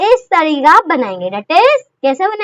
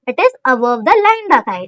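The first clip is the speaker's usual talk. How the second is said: slow answer; 5 semitones lower, slower than usual. Shown as a demonstration. Teacher stating the answer.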